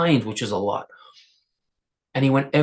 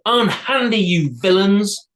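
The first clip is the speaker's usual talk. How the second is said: higher, louder command; commanding hero; 6 semitones higher, 4 dB louder, slower than usual. A narrator's reading. Isamboshi ordering the trolls to let go, loud command. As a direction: order them off. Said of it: "held his sword out and said".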